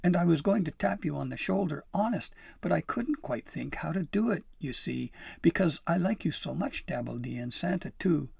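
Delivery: earnest, high confession; urgent, heartfelt explaining; pleading. A narrator's reading. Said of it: "Pim pleaded".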